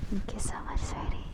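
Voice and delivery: whispered thanks, close to the mic; hushed whispered gratitude. Real, not acted.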